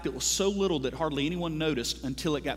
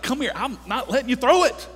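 raised, higher, playful parent pulling back; mock struggle with kid; 8 semitones higher, 5 dB louder than usual. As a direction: act out grabbing the boomerang from a child. Parent wrestling boomerang from kid.

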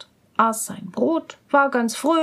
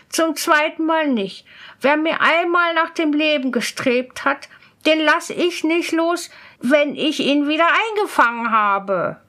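put-on higher-pitched, resolute young scholar; firmly refusing student; 4 semitones higher than usual. Student refusing the recaptured spirit, resolute. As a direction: turn the plea down firmly.

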